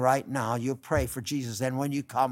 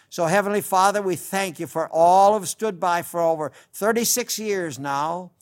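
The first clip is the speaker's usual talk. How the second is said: fervent pastoral prayer, building on each plea; earnest prayer; 4 dB louder than usual. Acted. Radio preacher praying for the lonely and weary, fervent. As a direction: lift them up to God in earnest. Closing prayer over listeners.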